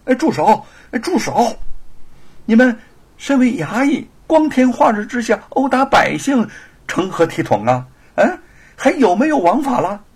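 loud indignant shout, pitched high; shouting stop. Acted. Scholar shouting at constables beating a man, loud indignant cry. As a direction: call out sharply to stop them. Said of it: "就喊到了".

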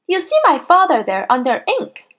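put-on high little boy's voice; helpful schoolboy. A narrator's reading. Boy tells headmistress where to check, high-voiced. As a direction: pipe it up high and innocent.

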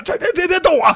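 high-pitched urgent plea to stop; blurted, high "don't move" cry; alarmed warning. Retold or imitated. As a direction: stammer it out in mock panic. Acting Zhu Bajie grabbing Tang Seng.

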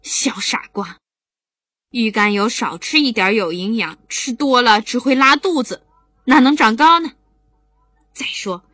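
lightly voiced mom, fond scolding; chiding mother. Mother explaining to the silly children, mild chiding. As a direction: tease the kids like a patient mother.

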